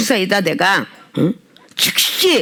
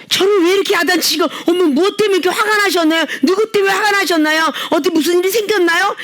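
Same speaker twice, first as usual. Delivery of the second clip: higher, sweet concerned asking; gentle asking; 7 semitones higher than usual. Retold or imitated. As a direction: coax it like a caring church member. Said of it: "이렇게 묻는 일은 없다고".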